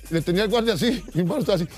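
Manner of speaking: ordinary talk, nothing marked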